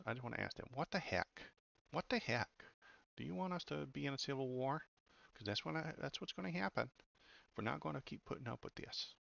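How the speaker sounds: mock a prim Midwestern lady's indignation in a Midwestern accent; Midwestern woman's accent. Host mocking outraged supporters, in a high Midwestern woman's accent. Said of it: "can I do a Midwestern woman's accent".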